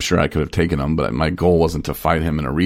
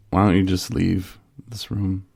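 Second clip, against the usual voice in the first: mock polite; 4 dB quieter than usual. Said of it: "I didn't say it like that".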